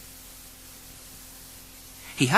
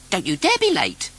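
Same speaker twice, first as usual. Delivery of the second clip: mild snap; 6 semitones higher, 5 dB louder than usual. Acted. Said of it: "she snapped".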